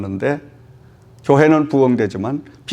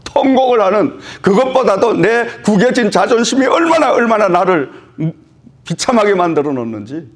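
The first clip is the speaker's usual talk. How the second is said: 통곡하듯 호소; 5 semitones higher than usual. Retold or imitated. 하나님 앞에 통곡 재연.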